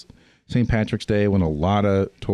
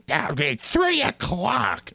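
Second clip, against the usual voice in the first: slow, higher, softer mock Irish accent; Irish accent with attitude; 7 semitones higher, 4 dB quieter, much slower than usual. Hotel lady to early guests, Irish accent with attitude. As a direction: draw it out as a snippy Irish receptionist. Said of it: "has given us a load of attitude".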